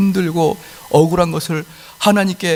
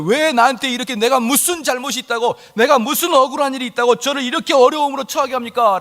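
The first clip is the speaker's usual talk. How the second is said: Job's lament; 8 semitones higher than usual. Acted. Job complaining to God.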